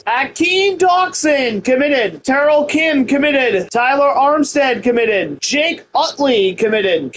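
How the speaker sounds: each name drawn out, then committed; slow recruiting announcement. Acted. Streamer announces each recruit slowly to viewers. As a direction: read each signing like a big reveal.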